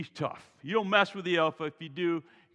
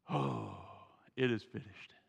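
soft, falling read of the line; quiet; 9 semitones lower, 7 dB quieter than usual. Shown as a demonstration. Preacher reading Jesus's last words softly to the congregation. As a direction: read it low and subdued. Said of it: "I'm sure it was louder than that".

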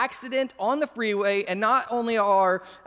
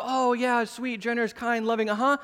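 light mock-sweet agreeableness; sweet and loving. Pastor showing his generous side before the flip, sweet. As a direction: play it kindly and obliging. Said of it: "It is going from".

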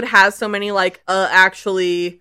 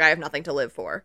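mock despair; 5 semitones lower, 7 dB quieter, faster than usual. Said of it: "he's like".

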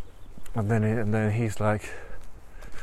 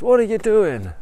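incredulous tiger; 11 semitones higher, 7 dB louder than usual. Acted. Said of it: "It says".

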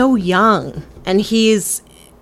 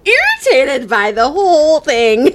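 laughing; 5 semitones higher than usual. Real, not acted. Laughing while ranting.

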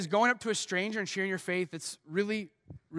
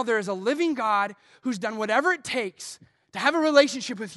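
raised, impassioned mock scream; retold yelling back; 3 semitones higher, 6 dB louder than usual. Preacher answers the angry student, retold yelling back. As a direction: fire it back, building louder and higher. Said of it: "I just screamed it at him".

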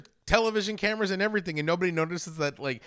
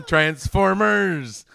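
slow word dissolving into laughter; laughing; 3 semitones higher, 4 dB louder, much slower than usual. Real, not acted. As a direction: drag it out while laughing.

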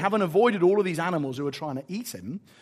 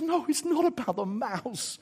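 softer, slow and deliberate; God's gentle correction; 5 semitones higher, 5 dB quieter, slower than usual. Retold or imitated. God answering self-doubt, soft slow reassurance. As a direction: reassure them without raising the voice. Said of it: "God says".

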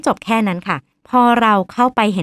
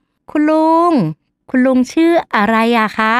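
careful polite asking; 2 semitones higher than usual. Retold or imitated. Team leader asking the uncle's name, carefully polite. Doctor composed, tries addressing uncle again.

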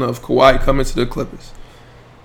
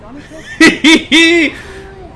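high burst of laughter; 13 semitones higher than usual. Real, not acted. Dad laughing at the stubborn toddler, high laugh.

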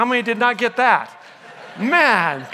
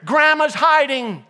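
put-on loud child; 3 semitones higher, 3 dB louder, slower than usual. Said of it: "said loudly for everybody to hear".

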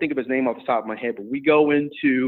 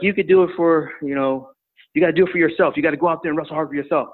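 higher, urgent coaching plea; panicked coach; 4 semitones higher than usual. Retold or imitated. Coach pleading with his tired wrestler, mildly panicked. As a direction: urge him on like a coach in a light panic. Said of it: "all in a panic".

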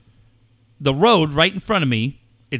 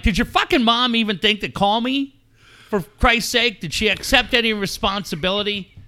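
exasperated, raised-pitch grilling; retold yelling; 6 semitones higher than usual. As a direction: re-enact an indignant rant at your son. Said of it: "So now I'm yelling at Cade".

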